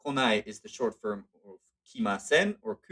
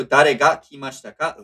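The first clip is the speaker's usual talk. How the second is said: louder punch on "Dare"; stress on Dare; 7 dB louder than usual. Shown as a demonstration. Teacher showing the question word carries emphasis, stress on "Dare". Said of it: "emphasis is on the dare".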